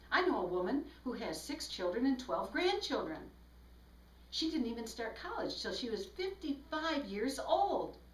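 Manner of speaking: flowing newsreader phrasing, lifted at sentence ends; lively varied tune, not a reading voice; nightly news delivery. Shown as a demonstration. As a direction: say it like the nightly news, going up at the end. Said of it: "Can you hear me go up at the end".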